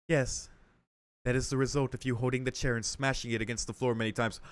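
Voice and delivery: lightly voiced dutiful maid; formal maid, matter-of-fact. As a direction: report it politely and evenly as a servant.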